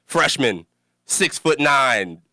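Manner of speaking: slow player-intro voice, each stat spaced out; slow stadium-intro stat read; announcer stat read. Acted. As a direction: read the stats like a sports announcer. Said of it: "I don't know why I said it like that".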